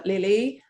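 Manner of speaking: Lily drawn out slowly, rising at the end; slow Lily with a questioning lift; another mispronounced variant. Shown as a demonstration. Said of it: "I've heard Lily is an obvious one".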